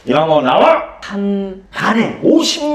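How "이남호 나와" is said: loud, curt call; teacher's summons. Retold or imitated. Teacher calls the boy out to the front, loud. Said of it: "이렇게 얘기를 한 거야".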